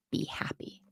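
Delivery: a shy little whisper at the end; whispered aside. Real, not acted. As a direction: whisper it softly under your breath. Aside about feeling happy.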